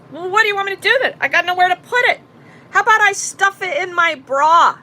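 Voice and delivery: a woman sarcastically challenging the cop about where to put her money, fast and high; exasperated retort. Retold or imitated.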